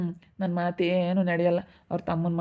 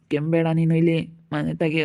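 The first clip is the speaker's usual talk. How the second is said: louder mock scolding wife; quoting wife; 5 dB louder than usual. Old man imitating his wife forbidding his cough, louder mock scold. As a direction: bark out the wife's nagging, louder. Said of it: "ಅಂತಾಳೆ".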